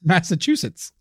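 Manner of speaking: "Massachusetts" with the final "-sets" sounded; tidy "Massachusetts", t restored; careful correct retry. Shown as a demonstration. Careful retry after being corrected.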